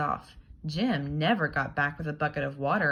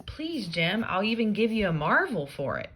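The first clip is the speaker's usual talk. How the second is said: lightly voiced pleading Tom; 4 semitones higher than usual.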